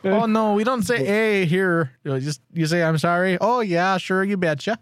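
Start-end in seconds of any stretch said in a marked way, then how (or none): 0.0-1.9 put-on Minnesotan lilt, pitched up; hammed-up Upper Midwest accent; Minnesota accent. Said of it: "That is the best accent in the States". 2.8-4.8 hammed-up Minnesotan, round vowels; higher, sing-song Upper Midwest accent; Minnesota accent. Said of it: "That is the best accent in the States".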